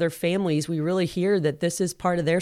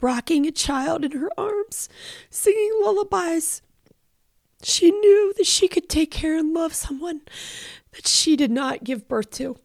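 real tearful, high-pitched strained voice; fighting back tears while reading on; choked up; 11 semitones higher than usual. Real, not acted. Host reading a friend's adoption story, choked up and tearful. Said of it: "I'm gonna have a hard time".

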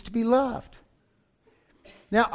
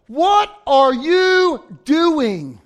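very slow, loud, drawn-out rebuke; angry master; 4 semitones higher, 6 dB louder, much slower than usual. Retold or imitated. Master confronts the unforgiving servant, slow loud rebuke. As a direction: stretch every word in outrage. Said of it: "the master calls him back in and says".

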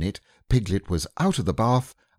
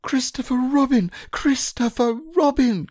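very high, louder squeaky call; crying out; 5 dB louder than usual. Acted. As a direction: call a rescuer. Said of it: "cried Piglet".

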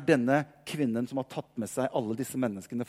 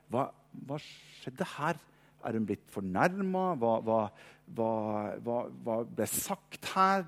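puzzled disciples; 6 semitones lower, 6 dB quieter than usual. Retold or imitated. Disciples baffled by the woman leaving.

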